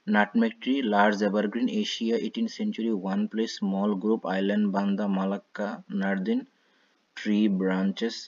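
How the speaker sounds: jumping from keyword to keyword; scanning for keywords. Shown as a demonstration. Teacher shows students how to scan a passage for keywords. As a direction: skim the text aloud, only the key words. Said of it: "আমি আপনাদেরকে বোঝার জন্য বলছি".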